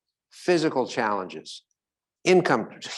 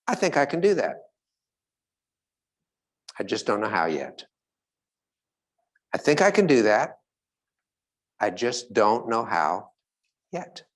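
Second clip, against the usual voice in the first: hopeful self-talk; 2 semitones lower than usual. Shown as a demonstration. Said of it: "I'll try this one".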